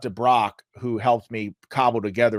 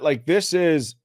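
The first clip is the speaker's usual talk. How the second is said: hoarse voice; 3 semitones higher, slower than usual. Real, not acted. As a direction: voice going hoarse. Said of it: "I'm losing my voice here".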